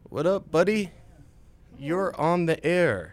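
high, loud on-air welcome; loud excited greeting. Real, not acted. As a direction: greet the guest like a DJ.

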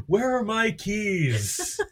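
put-on high, slow doddering old man; confused old person. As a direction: mumble like a lost old man. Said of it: "He sounds a bit like a confused old man".

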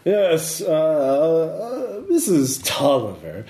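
lightly voiced posh lady; a hint of a grand aristocratic lady. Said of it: "your posh lady voice is the best".

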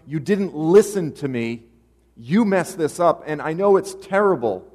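loud, high-pitched insistent address; forceful divine rebuke. Acted. God confronts Abraham for not listening, loud and forceful.

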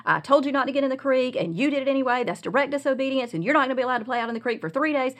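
scolding rant. Retold or imitated. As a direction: rattle it off like a mom who has lost her patience. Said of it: "I started rattling off how he had disobeyed me".

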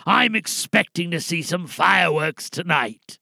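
lightly voiced old insurance man, reflective then rallying; retired insurance man's speech. Retired insurance man rallying the crowd, rising from reflective to defiant. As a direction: speak to the crowd like a man who finally chose a side. Performs the prepared monologue.

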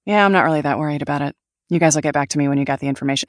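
fast, offhand, unbothered; understated power. Shown as a demonstration. Directors' stripped-back villain sister, fast and offhand. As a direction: toss it off like nothing worries her. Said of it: "What does it sound like if she's just".

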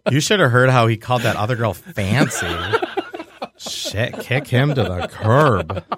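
2 slow, drawn-out sassy friend; 3 lightly voiced girlfriend telling her to dump him; 4 mock gossiping bestie. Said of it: "girlfriends would show up and be like".

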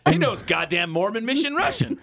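laughing while saying it; words pushed out through a laugh. Real, not acted. Laughing while mocking a friend.

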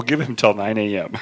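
laughing while reading aloud. Real, not acted. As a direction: crack up mid-line. Reading own text, laughing.

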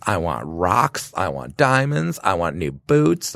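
slow, itemized birthday demands; mock demanding. Birthday girl demanding presents from friends, mock demanding. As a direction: draw out each wish like a spoilt list.

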